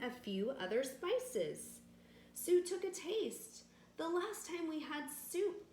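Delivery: lively read-aloud with voiced villagers; storytelling to children. A narrator's reading. Narrator telling children a village tale, bright storytelling. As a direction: read it like a bedtime story for kids.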